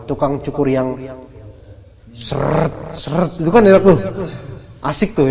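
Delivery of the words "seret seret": rasping mimic of a comb stroke; imitated combing noise. Teacher showing how nice combing loose hair feels, imitated combing noise. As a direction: sound out a comb dragging through hair.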